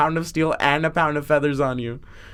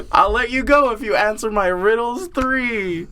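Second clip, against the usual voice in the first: high-pitched storybook troll bargain; 5 semitones higher than usual. Pretend. Second troll offering riddles for passage, mock-grand. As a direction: deliver the challenge as a hammed-up troll. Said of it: "And it said".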